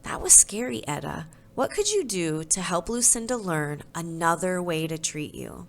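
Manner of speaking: gentle teacher, softening toward the end; mild soothing tone. Acted. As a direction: comfort a scared child. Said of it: "says in a soothing voice".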